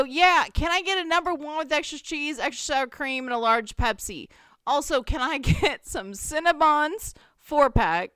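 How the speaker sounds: lightly acted eager customer; drive-thru ordering. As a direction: place an order into a speaker. Ordering over brother's truck loudspeaker.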